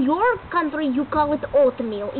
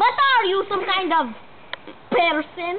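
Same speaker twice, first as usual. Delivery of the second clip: put-on Russian customer; mock Russian accent. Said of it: "Russian accent".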